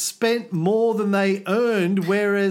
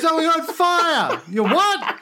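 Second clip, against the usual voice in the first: higher and louder mock yell, laughing; mock shout; 9 semitones higher, 3 dB louder than usual. First ship yells to the second ship, hammed-up mock shout. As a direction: shout it across the water, hammed-up. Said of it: "he goes".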